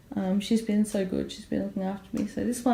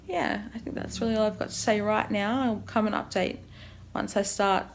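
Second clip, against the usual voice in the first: dry mouth. Real, not acted. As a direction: mouth too dry to talk easily. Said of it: "it's just hard to talk".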